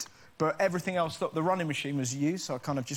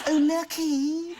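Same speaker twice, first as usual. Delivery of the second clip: put-on much higher, very slow, louder Bristol accent; Bristolian cousin voice; 12 semitones higher, 6 dB louder, much slower than usual. Cousin envying the gum, high slow Bristolian accent. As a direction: drawl out lucky in a broad Bristol accent. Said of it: "but I can do the voice".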